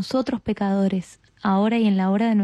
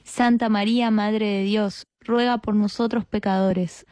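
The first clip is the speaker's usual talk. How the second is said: measured, level-toned prayer response; rosary response. Real, not acted. Answering the leader's Hail Mary, recited prayer. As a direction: answer in a steady recited cadence, settling on Amen.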